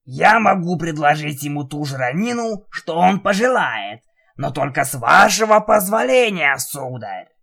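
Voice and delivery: Jigurda voice. Acted. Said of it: "сказал Джигурда".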